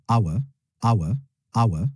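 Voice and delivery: hour said with silent H, "AH-wa". Shown as a demonstration. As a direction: drop the H in hour, starting on the vowel. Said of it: "Je prononce avec un H muet". (hour avec un H muet, « a-wa »)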